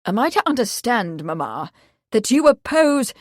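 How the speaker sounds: a touch of stiffness; stiffly formal son. Acted. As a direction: son stiffly confronting mother. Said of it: "Bradford's tone was stiff".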